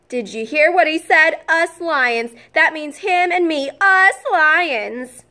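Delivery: high, loud bragging lion; proud boasting lion. Acted. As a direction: crow about it to everyone. Proud lion brags excitedly.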